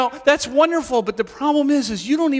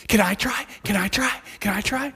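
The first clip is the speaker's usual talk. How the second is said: put-on eager child; 3 semitones higher, 3 dB quieter than usual. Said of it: "he's like your three-year-old".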